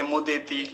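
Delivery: मुदेति with a simple "de"; single e vowel. Shown as a demonstration. Teacher showing a one-matra reading, single e in मुदेति. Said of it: "एक मात्रा होती तो मुदेति कहते".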